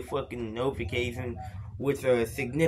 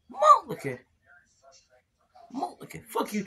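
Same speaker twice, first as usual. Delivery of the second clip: put-on drunken shout; 11 semitones higher, faster than usual. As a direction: bellow it up high at the chat. Drunken yell at chat.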